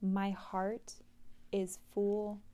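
slow, even affirmation read aloud; guided affirmation, unhurried; slow mantra reading. Acted. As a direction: read the mantra calmly and slowly.

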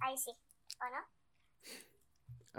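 voz de ardilla. Real, not acted. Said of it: "ahí se te escucha con voz de ardilla".

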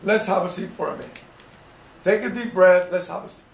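gentle calm. Shown as a demonstration. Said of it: "'cause you wanna talk in love".

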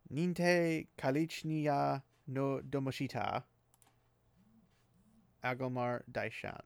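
slow, careful "Ninte Kalichniya no Domoshita, Agomar Daishan" sounded out; careful Old Tongue reading. Shown as a demonstration. Reciting Moraine's formal greeting, slow and careful. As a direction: read the Old Tongue words slowly, syllable by syllable. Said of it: "so I can pronounce it correctly".

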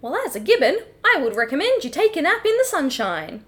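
simple monkey with a rising question; put-on Gibbon voice; Australian Gibbon. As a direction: play an eager, simple Aussie Gibbon. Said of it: "The classic Australian Gibbon".

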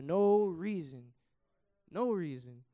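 drawn out and loud; slow anguished stress. Real, not acted. Preacher grieving for lost youth, slow and loud. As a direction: let the grief hit the words.

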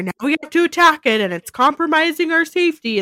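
rising alarmed movie voice; hammed-up frantic survivor; mock panic. Mocking movie survivor trope.

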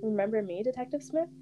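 put-on young girl voice. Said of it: "shifted to that of a young girl".

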